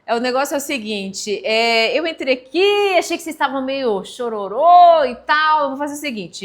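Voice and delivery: lightly voiced stand-up comic; comedian hyping the crowd. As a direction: pump up the audience, loudly. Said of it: "falavam assim".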